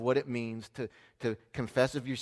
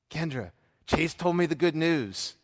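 acting out a teacher bursting with news; drawn-out, excited announcement, imitated; 4 semitones higher, 4 dB louder, slower than usual. Teacher excitedly greets mother with news.

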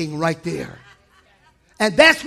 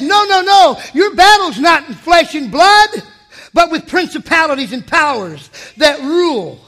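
God's firm voice; 6 semitones higher, 7 dB louder than usual. Acted. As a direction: declare it with authority. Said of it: "God says".

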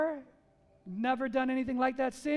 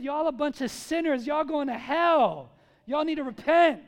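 louder, blunt fire-and-brimstone call; mock hellfire preacher, louder; bold confronting preach; 5 dB louder than usual. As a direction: hammer the sinners with it. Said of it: "he confronted very directly and very boldly".

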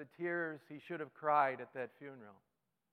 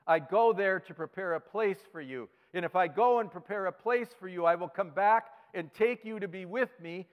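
louder, higher scripture read with fervor; preaching scripture; 4 semitones higher, 6 dB louder than usual. Acted. Pastor reading John fourteen to the congregation, fervent proclamation. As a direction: proclaim each promise.

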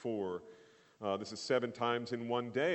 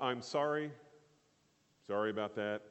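offhand sorry. Shown as a demonstration.

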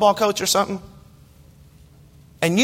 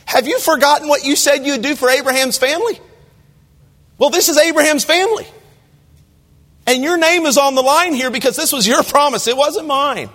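higher, insistent pleading with God; bold plea; 4 semitones higher than usual. Retold or imitated. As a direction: press God hard to keep his promise. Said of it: "But Moses boldly says to God".

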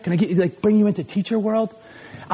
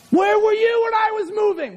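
indignant shout; 11 semitones higher than usual. Acted. Acted complaint to absent friend.

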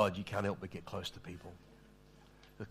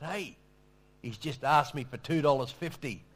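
imitated yell of complaint, raised pitch; Shane; 5 semitones higher, 7 dB louder than usual. Man on the street calling after the departing preacher, imitated yell. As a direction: call out an indignant protest, louder and higher. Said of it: "then Shane yells out".

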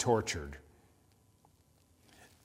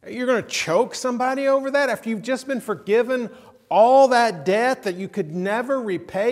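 higher, louder indignant disbelief; shocked outrage; 8 semitones higher, 7 dB louder than usual. Retold or imitated. Listeners confront the unforgiving servant, loud shocked outrage. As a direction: demand it, appalled. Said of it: "we're shocked".

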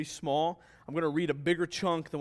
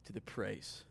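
scripture reading. Real, not acted. Reads scripture aloud to congregation.

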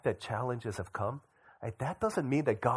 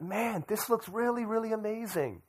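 amazed admiration; 11 semitones higher than usual. Retold or imitated. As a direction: marvel at it, stretching up high. Retells marvelling at the menus.

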